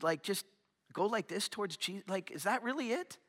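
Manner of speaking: hushed, wondering doubt about heaven; doubtful inner voice. Retold or imitated. Preacher voicing the congregation's doubt about heaven, hushed and wondering. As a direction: ask it softly like a private worry.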